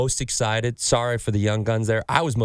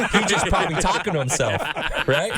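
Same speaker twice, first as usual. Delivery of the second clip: can't finish the punchline without cracking up; giggling through the first baseman's excuse; laughing through it; 5 semitones higher than usual. Retold or imitated. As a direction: quote breaking into laughter. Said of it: "And we're all dying".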